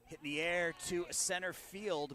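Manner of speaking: loud and high as the ball carries; excited fly-ball call. Real, not acted. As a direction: ride the fly ball with your voice.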